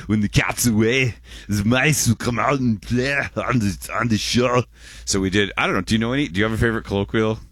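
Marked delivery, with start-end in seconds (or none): 0.1-4.6 lightly voiced Ani, a bit higher; a hint of Ani's voice on the proverb. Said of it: "as if Ani, Ani's saying".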